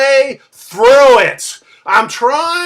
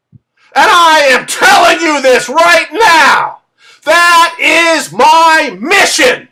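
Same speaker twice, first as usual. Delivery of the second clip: excited; 4 semitones higher, 4 dB louder than usual. Real, not acted. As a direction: drive it home, fired up and deliberate. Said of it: "Now, I could get all excited".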